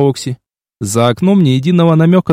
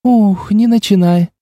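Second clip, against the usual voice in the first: slow, higher sulky complaint; 7 semitones higher, slower than usual. A narrator's reading. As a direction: pout through the words. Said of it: "насупилась близняшка". (надувшись, медленно)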